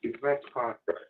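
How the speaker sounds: brushing teeth while talking; mouth full. Real, not acted. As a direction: talk through a mouthful of toothbrush. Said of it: "did we catch you in the middle of eating".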